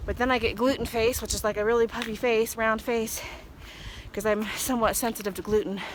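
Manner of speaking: breathless from the uphill climb; out of breath. Real, not acted. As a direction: talk while short of breath. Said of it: "Hard to talk and walk up a hill".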